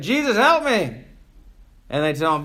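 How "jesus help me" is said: mock yell. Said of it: "He's yelling".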